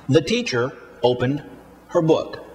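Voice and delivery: beats on "teacher", "opened", "book", with "The" and "her" rushed; rushed structure words. Shown as a demonstration. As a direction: rush "The" and "her" into the stressed words. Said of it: "One more time".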